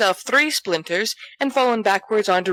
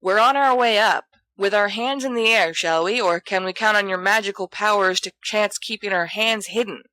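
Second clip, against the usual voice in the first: louder; 3 semitones higher than usual. Acted. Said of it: "he adds louder".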